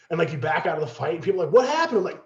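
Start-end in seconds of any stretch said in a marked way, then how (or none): 1.5-2.0 higher, louder, baffled call; loud puzzled question. Retold or imitated. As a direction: call out confused over the noise. People asking in the fight.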